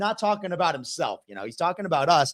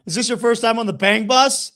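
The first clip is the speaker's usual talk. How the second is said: mild mock of a creepy come-on, a bit higher; hammed-up leering question; Mike's sleazy voice; 6 semitones higher, 3 dB louder than usual. Retelling Mike's line to the woman, mock sleazy. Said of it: "That's basically how Mike was fucking talking".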